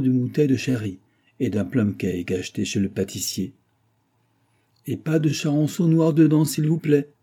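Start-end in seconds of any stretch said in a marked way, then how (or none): 4.9-7.1 higher, louder, hurried cut-in; eager interjection. A narrator's reading. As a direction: jump in eagerly with the warning. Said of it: "intercala avec empressement Dob". (Dob intervient avec empressement, voix plus haute)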